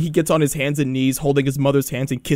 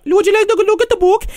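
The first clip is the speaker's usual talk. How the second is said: very high squeaky put-on voice; interrupting book pusher; 4 dB louder than usual. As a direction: cut in with a relentless high-pitched offer. Repeated interrupting catchphrase.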